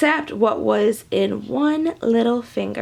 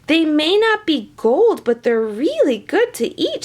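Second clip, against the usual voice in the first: mild shout; 3 semitones higher than usual. Acted. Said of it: "shouted Patrick O'Michael".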